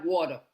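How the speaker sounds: "water" with a flapped t; American-style pronunciation. Retold or imitated. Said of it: "Not water. Water".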